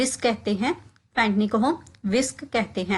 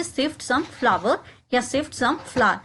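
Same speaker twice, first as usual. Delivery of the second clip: slow repetition; much slower than usual. Shown as a demonstration. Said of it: "उसको हम कहेंगे".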